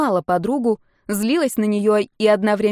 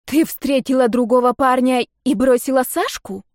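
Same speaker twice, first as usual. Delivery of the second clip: astonished; 4 semitones higher, 4 dB louder than usual. A narrator's reading. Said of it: "удивлённая сверх меры Даша".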